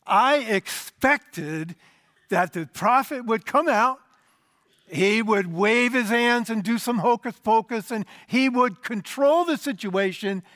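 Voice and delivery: lightly voiced indignant general; indignant Naaman. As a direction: play the offended big man who expected a show. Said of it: "You hear what he says?".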